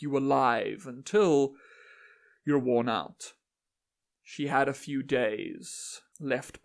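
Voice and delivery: measured, solemn recitation with deliberate pauses; stately dramatic verse reading; poem reading. Acted. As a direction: recite it as an otherworldly speaker addressing humans. Reads own poem aloud.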